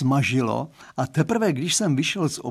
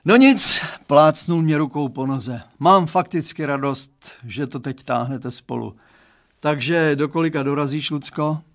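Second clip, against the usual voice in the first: put-on dad confiding in the boy; Mr Stránský's voice; 4 dB louder than usual. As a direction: play the girl's dad, earnest and chatty. Father cheerful goodbye.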